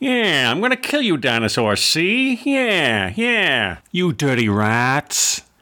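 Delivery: put-on slow, deliberate, old-Hollywood movie style voice. Retelling a crew member talking to the dinosaurs: James Cagney impression. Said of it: "That's James Cagney".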